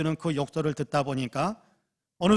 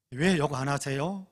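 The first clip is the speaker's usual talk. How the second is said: slow polite question; slower than usual. Retold or imitated. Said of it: "존댓말까지 써가면서 묻더랍니다".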